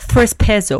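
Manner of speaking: "Tres Pesos" in a put-on English accent; mock English accent. Shown as a demonstration. Host joking that it's English, mock English accent. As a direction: say it with an exaggerated American accent. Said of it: "¿Lo dije bien en inglés?".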